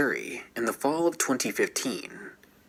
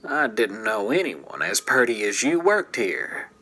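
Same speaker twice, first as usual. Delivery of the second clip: put-on heavy Southern accent. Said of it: "he said in a heavy southern accent".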